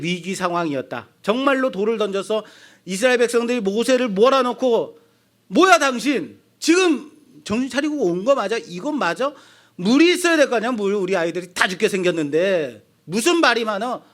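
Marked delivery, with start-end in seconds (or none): 5.5-14.0 acting out an irate crowd, pitched up at the start; mock angry protest. Thirsty Israelites turn on Moses over their children, mock indignant. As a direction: imitate indignant people confronting their leader. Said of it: "돌을 던지려고 하는 일촉즉발의".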